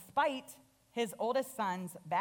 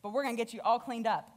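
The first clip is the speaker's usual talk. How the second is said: lightly voiced father, a little higher, teasing and fond; father welcoming son home; 4 semitones higher than usual. Father teasing his returned son, mock disgust, fond and light. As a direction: play the glad father ribbing his smelly son. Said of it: "So he's like".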